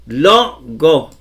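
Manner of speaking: "Logo" in two slow syllables, stress on "Lo"; penultimate stress. Shown as a demonstration. Teacher drilling the accent, "Logo" slowly split with stressed LO. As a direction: draw out the LO of "Logo", then a separate "go". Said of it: "en la penúltima".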